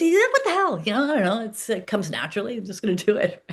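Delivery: excited friend. Retold or imitated. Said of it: "He goes".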